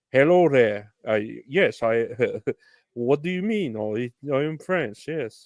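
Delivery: badly faked French accent, like a dubbed actor; halting mock French accent with a chuckle; botched French accent. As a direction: attempt a French accent and fumble it. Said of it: "I can't do his fucking accent".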